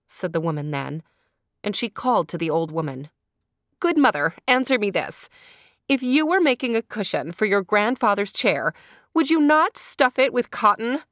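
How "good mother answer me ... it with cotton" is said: raised, higher call to a passerby. Acted. Wife calls to the old woman at the gate, raised voice. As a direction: call her over to settle it.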